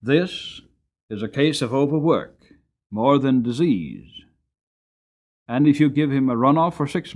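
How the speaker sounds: a hint of a plain-spoken farrier giving his verdict. A narrator's reading. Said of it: "He examined me very closely and said".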